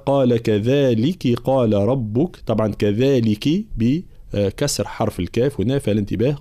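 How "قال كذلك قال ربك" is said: slow tajweed recitation with held vowels; Quran recitation. Acted. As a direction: recite it in measured chant. (ترتيل قرآني)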